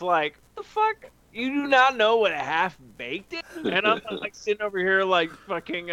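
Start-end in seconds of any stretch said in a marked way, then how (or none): 0.6-3.4 much higher, incredulous mock Chappelle voice; Dave Chappelle impression. Mocking a friend's movie outrage, high incredulous Chappelle voice. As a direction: do Chappelle aghast that nobody has seen it. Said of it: "like, Dave Chappelle with".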